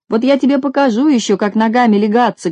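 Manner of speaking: a hint of an angry shout; shouting after him. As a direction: yell the threat after him. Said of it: "кричал ему вслед Винтик".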